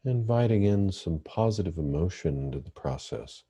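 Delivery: calm, measured meditation guidance with long pauses; guided meditation. Real, not acted. Therapist leading listeners through breathing meditation, calm guided meditation. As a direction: guide listeners gently into the breath, leaving space between phrases.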